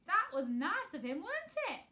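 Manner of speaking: high, slow delighted question. A narrator's reading. Martha delighted for Mary, slow and high. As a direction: beam out the question, rising high. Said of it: "said Martha delightedly".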